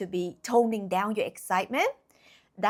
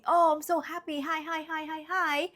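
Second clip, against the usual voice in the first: high, hammed-up hi hi chirp; mock bubbly greeting; 6 semitones higher than usual. Mocking a fake-cheerful person greeting everyone, high and bubbly. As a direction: parody an overly happy greeter. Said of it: "trying to be".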